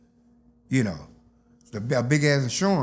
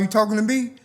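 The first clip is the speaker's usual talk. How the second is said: menacing question; 7 semitones higher than usual. Retold or imitated. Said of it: "So he turned around".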